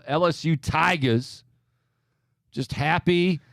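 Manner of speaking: lightly doing Brian Kelly's put-on Southern accent; Brian Kelly impression. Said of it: "That is a horrible Brian Kelly impersonation".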